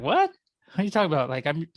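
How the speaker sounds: high, quick incredulous comeback; mock disbelief. Family answering neighbor who offered to pay, mock disbelief. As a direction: shoot up in pitch, acting baffled by the offer.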